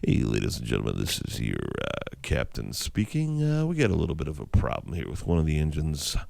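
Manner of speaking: low, soft captain on the intercom; pilot announcement. Retold or imitated. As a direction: drop low and easy like a pilot. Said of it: "He goes".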